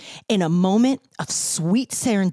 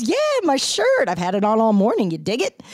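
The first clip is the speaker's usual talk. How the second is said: playful friend quote; faster than usual. Retold or imitated. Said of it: "he smiles and goes".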